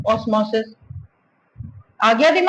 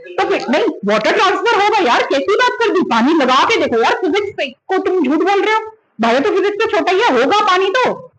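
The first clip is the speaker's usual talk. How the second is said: higher, mock-outraged student voice; mock indignation; 6 semitones higher than usual. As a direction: parody the wrong logic, incredulous. Mocking students' wrong reasoning. (छात्रों की गलत सोच की नकल)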